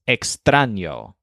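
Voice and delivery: extraño with the weight on tran, said slowly; slow ex-TRAN-yo with tran stressed. Shown as a demonstration. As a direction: hit tran in extraño: ex-TRA-ño. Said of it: "with a stress on tran".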